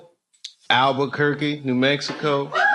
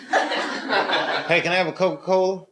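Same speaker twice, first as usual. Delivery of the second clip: mock British accent; 5 semitones higher, slower than usual. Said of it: "I wanna learn how to talk like you".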